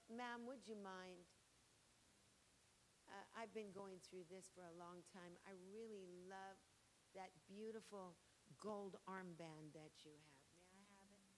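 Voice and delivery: a lightly voiced, soft and timid servant asking; a hint of a shy servant begging jewels; polite servant. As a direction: ask humbly, almost apologetically. Servant asking mistress for gold.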